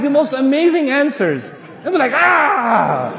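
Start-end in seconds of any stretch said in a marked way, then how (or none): 2.1-3.1 loud drawn-out "ah" as if stabbed; hammed-up wounded cry; mock cry. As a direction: imitate a pained yell. Imitating reaction to stinging answers.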